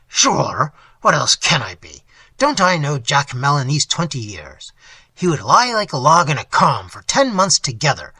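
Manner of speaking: mildly boisterous host bragging of his ship; lightly voiced blustering innkeeper. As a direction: scoff like a proud sea dog, a touch loud.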